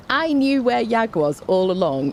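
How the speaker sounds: high, slow boast; drawn-out, hammed-up bragging; mock self-congratulation. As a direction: crow with pretend smugness. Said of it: "senses of humour is self-congratulations".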